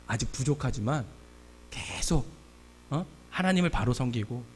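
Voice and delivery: God's reassuring voice, imitated quietly; gentle encouragement. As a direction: comfort and encourage, starting very softly. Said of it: "그런 음성을 주시면서 저를 격려해 주시더라고요".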